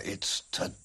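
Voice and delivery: sinister. Acted. Villain sinister line.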